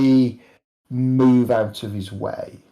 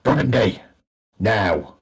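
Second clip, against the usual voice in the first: gruff; 3 semitones lower, slower than usual. Acted. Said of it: "you hear this kind of gruff".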